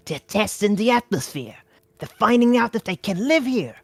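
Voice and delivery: awed realization. A narrator's reading. Chester realizes alien ship.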